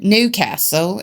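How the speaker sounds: Newcastle in a mock Cockney accent. Shown as a demonstration. Showing co-host English accents, mock Cockney Newcastle. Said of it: "It depends on if you're a Cockney".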